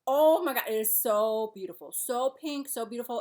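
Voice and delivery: retold burst of delighted admiration; gushing admiration. Retelling her reaction to makeup on the table, gushing. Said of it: "I'm like".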